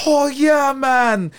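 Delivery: high, loud "oh yeah"; hyped agreement. Retold or imitated. Friend hyping back at Eric, high and loud. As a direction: cheer it like a hyped buddy.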